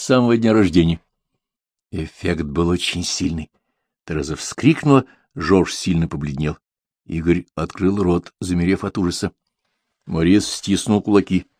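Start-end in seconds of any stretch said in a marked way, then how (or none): none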